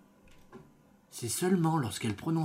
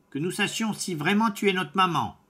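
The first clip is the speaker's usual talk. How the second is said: put-on kids crying out; 7 semitones higher than usual. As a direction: call out like wary little goats. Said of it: "crièrent les chevreaux".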